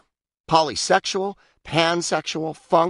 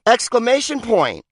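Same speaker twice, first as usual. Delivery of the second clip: "Exclamation point!" blurted higher and louder; exclaimed; 10 semitones higher, 4 dB louder than usual. Shown as a demonstration. Reading the punctuation list, the writer finally bursts out with an exclamation. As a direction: sell "Exclamation point!" as a big exclamation.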